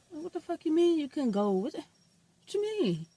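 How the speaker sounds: high, indignant demand that slows at the end; retold outraged yell. Demanding his tag from the dealership woman, indignant high yell. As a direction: throw the question back at her, disbelieving. Another excuse about the tag.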